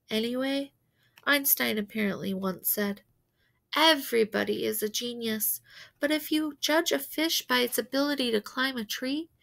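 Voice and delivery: a hint of a soft-spoken mom; lightly voiced mother. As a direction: softly speak up for her son. Mother's recorded profile speech.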